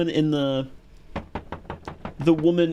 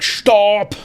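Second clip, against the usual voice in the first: mock German screams, climbing ever higher; heavy German accent; 12 semitones higher, 5 dB louder, much slower than usual. Imitating the mad medic screaming at an amused patient, heavy German accent. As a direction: scream it in German accent, loud at first, then shriller. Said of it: "in a heavy German accent".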